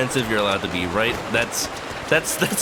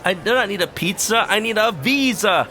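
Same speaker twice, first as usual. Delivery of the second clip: high indignant woman's voice; pitched-up flustered complaint; lady's voice; 9 semitones higher than usual. Retold or imitated. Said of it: "she's like".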